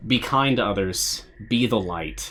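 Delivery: sincere. Real, not acted. Slow heartfelt sign-off.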